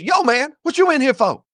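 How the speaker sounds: a touch of a tough cellmate; cellmate's voice. Retold or imitated. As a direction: voice the cellmate sizing him up. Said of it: "He looks at me and he says".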